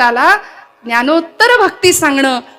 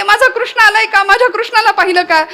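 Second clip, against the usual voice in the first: higher, anxious pleading of a frantic mother; distraught mother; 5 semitones higher than usual. Acted. Yashoda searching for Krishna along the Yamuna, frantic high plea. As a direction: beg every passer-by for news of her son. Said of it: "वेड्या पिशासारखी धावत फिरतीये".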